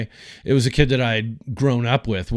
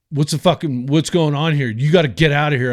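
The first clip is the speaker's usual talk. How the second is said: higher, brisk mock-irate cop demanding he leave; huffy sheriff; 4 semitones higher, 4 dB louder than usual. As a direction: imitate a huffing, puffed-up sheriff ordering you out. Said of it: "just walks up huffy puffy".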